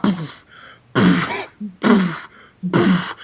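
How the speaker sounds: mouth stomp noises. Shown as a demonstration. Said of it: "make the noise with your mouth".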